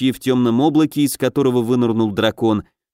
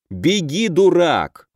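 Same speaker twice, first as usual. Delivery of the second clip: raised, exasperated urging; urgent yell; 5 semitones higher, much slower than usual. A narrator's reading. Raid leader shoving a frozen elf forward, urgent yell. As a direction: push him on with a higher-pitched mild yell. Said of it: "заорал Алёша и толкнул эльфа".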